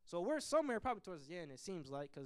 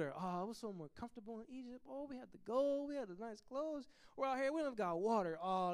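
grumbling Israelites. Retold or imitated. Preacher voicing the Israelites whining at Moses, mock complaint. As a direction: moan at Moses like a spoiled crowd.

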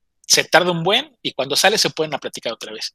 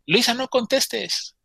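high, drawn-out urgent plea; imitating an urgent call; urgent warning; 8 semitones higher, much slower than usual. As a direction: stop her from picking up, pitch raised. Quarrel over answering the phone.

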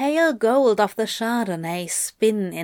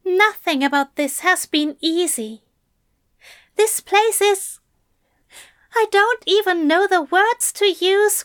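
raised, higher gentle angel; higher-pitched voice for the anxious angel; Aziraphale voice; 10 semitones higher, 5 dB louder than usual. A narrator's reading. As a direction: lift the voice for the fussy angel. Aziraphale rambles.

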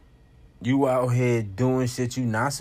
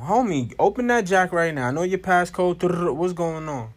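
put-on raised, insistent demand to a teen; confronting parent; 4 semitones higher, 4 dB louder than usual. Parent demanding a teen's phone, confrontational. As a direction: lay down the law as a parent, pitched up.

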